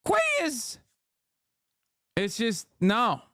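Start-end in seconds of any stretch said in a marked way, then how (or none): 0.1-0.8 high nasal-free Boston drawl on queer; Boston twang. Shown as a demonstration. Streamer mocking Boston accent to chat, Boston twang. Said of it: "a twang to it".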